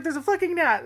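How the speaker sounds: high, loud panicky complaint; mock panic about a gnat; panicked sister. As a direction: imitate sister freaking out over a bug. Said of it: "She's like".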